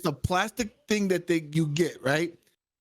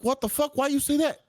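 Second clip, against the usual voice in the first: baffled; 8 semitones higher than usual. Retold or imitated. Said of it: "I'm like".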